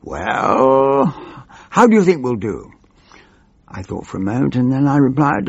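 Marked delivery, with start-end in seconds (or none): 0.0-2.7 hammed-up snarl of a scowling chief whip. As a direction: sneer it like a nasty chief whip. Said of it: "He scowled and snarled".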